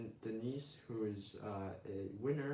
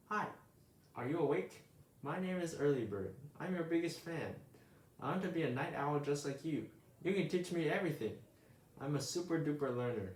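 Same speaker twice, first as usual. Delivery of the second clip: put-on higher, bubbly young bird voice; eager little bird; 4 semitones higher than usual. Early Bird gushing to sleepy Owl, high and eager. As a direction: chatter up at your hero, all excitement.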